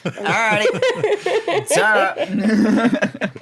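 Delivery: high, slow laughing alrighty. Real, not acted. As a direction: laugh through it, stretched out. Laughing, leaving the room.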